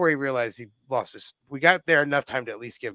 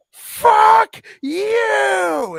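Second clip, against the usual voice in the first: much higher, louder hammed-up yell; mock yell; 9 dB louder than usual. Drunk friend yelling at the cops, much higher mock yell. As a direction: scream it back at the cops.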